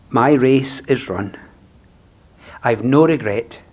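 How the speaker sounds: measured, steady recital of a funeral poem; poem reading. Acted.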